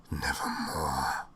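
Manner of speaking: low, very slow, otherworldly croak; raven's answer. Acted. Raven answering the narrator, low, slow and eerie. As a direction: let the raven toll the word slowly and low. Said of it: "Quoth the raven".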